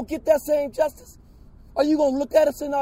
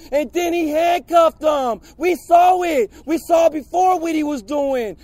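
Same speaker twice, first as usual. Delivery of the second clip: angry shouting. Real, not acted. Protester shouting testimony.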